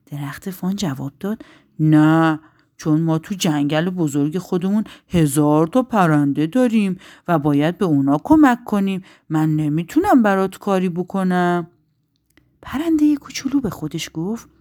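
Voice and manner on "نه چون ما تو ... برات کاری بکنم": lightly voiced tree, firm and louder; refusing tree. Tree refuses the injured bird, mildly firm.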